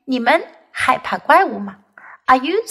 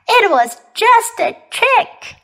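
high, drawn-out playful confession; gleeful teasing; 9 semitones higher, slower than usual. Acted. Kipper admitting his prank, gleeful teasing. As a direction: tease Mom, stretching the words. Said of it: "laughed Kipper".

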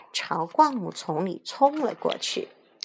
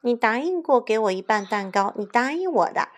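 urgent, higher-pitched protest; anxious arguing; 4 semitones higher, 3 dB louder than usual. Acted. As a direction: plead your case in a fluster. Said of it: "大灰狼急得争辩道". (着急地争辩)

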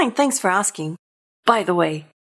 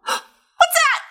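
surprised gasp. Acted. Pigeon hears a bark.

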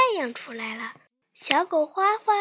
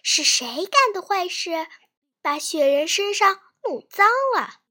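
scolding mother dog; 3 semitones higher, 6 dB louder than usual. Acted. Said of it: "责问弟弟妹妹".

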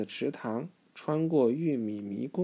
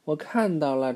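loud excited shout of discovery; storybook exclamation, louder; loud call; 2 semitones higher, 6 dB louder than usual. Acted. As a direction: call out that you spotted it. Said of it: "猪妈妈大声说".

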